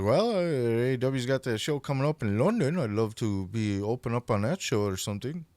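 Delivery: put-on a light, amateur British accent; a modest attempt at an English accent, quoting a young wrestler. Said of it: "That's my British accent for all you U K fans listening".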